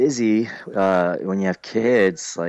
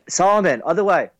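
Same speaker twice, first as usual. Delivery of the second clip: calling to son; 11 semitones higher, 3 dB louder than usual. Real, not acted.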